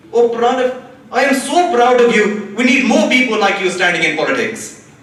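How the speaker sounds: put-on light Indian auntie accent; lightly voiced Indian auntie. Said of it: "I'm gonna try doing an Indian accent".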